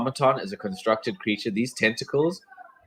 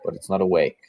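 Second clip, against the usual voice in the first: game master's scene setting. Acted.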